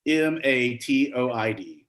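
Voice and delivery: letters spelled out one by one, slowly; slow spelling. Shown as a demonstration. Host spelling the answer for players, slow and deliberate. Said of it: "spell rheumatoid".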